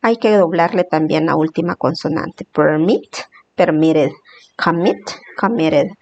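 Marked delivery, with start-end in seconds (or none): 2.4-3.2 Permit with the force on its last syllable; stress on second syllable. Shown as a demonstration. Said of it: "la fuerza está en la segunda sílaba". 4.6-5.1 Commit with the force on its last syllable; stress on second syllable. Shown as a demonstration. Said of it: "la fuerza está en la segunda sílaba".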